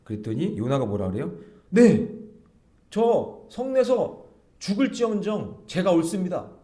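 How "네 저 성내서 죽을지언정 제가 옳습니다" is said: loud, high retort as Jonah; defiant arguing. Retold or imitated. Jonah arguing back to God, loud mock defiance. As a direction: answer back sharply, word by word, slowly. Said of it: "막 이렇게 따지는 거예요".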